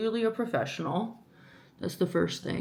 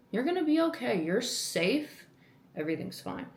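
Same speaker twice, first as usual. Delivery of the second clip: self-soothing; 4 semitones higher than usual. Real, not acted. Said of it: "calms herself down".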